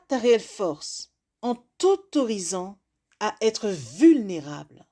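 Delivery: measured recitation with long pauses; spoken-word poem. Acted. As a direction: deliver it as a rhymed address, phrase by phrase. Recites a written rhyming piece.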